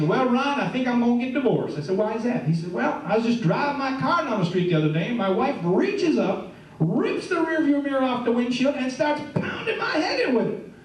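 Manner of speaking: lightly Southern friend telling his story; light southern accent. Retold or imitated. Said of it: "a little bit of a southern accent".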